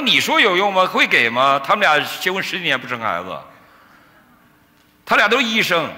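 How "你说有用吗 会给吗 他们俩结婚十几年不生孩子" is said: high, louder mock remonstrance; agitated challenge. Pastor doubting the preacher's promise of a child, agitated challenge. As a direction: act out an upset pastor challenging him.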